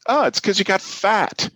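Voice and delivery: high, blunt Scottish shopkeeper yell; Scottish accent. Retold or imitated. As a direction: call it out in a brash Scottish accent. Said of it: "yelled out in the store in a Scottish accent".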